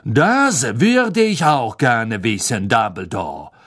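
cold, slow, steely smile; cold sneering man. Acted. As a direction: speak with an icy smile. Karkaroff voiced.

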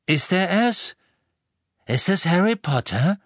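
eager, high and loud questioning; begierig. A narrator's reading. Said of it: "Er klang begierig". (begierig, mit erhobener Stimme)

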